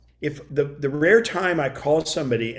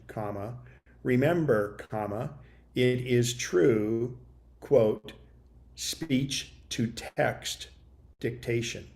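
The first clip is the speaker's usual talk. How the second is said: dictation voice; 3 semitones lower, 5 dB quieter than usual. Shown as a demonstration. Showing viewers how to dictate to the phone, measured dictation voice. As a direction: read it out word by word for the phone to type.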